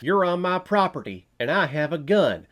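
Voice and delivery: mocking a reviewer's imitation of a Western tough guy; mock Western gun owner. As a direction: play the trigger-happy rancher warning off a trespasser, half in jest. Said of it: "You think I'm making fun of Westerns".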